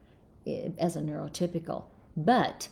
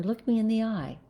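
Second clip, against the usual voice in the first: higher voice, asking to be noticed; higher appeal for attention; pleading for attention; 5 semitones higher, faster than usual. Retold or imitated. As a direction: raise the pitch and plead to be seen. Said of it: "When we say".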